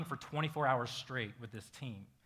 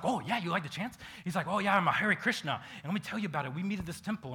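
eager, upbeat pitch, a notch higher; beaming enthusiasm; 4 semitones higher, 3 dB louder, faster than usual. Retold or imitated. Hare Krishna man telling a stranger about his temple, beaming. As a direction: sell your temple to a new friend, glowing. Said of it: "And he just beams up".

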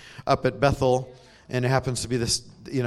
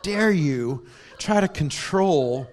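mock kid outrage; 3 semitones higher, slower than usual. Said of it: "I was really mad".

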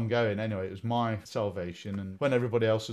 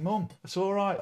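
put-on whiny kid; 10 semitones higher, 5 dB louder than usual. Voicing young self to mum.

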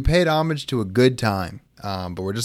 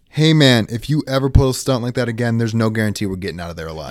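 scolding warning. Acted. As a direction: lay into him for the stunt. Crew member scolding reckless driver.

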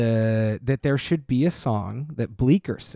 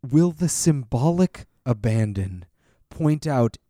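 portentous oracle voice; 3 semitones higher, much slower than usual. Acted. Heavy final thoughts, portentous.

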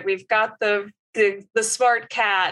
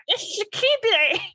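much higher squawky duck voice; Donald Duck voice; 12 semitones higher than usual. Pretend. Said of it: "I can't do it".

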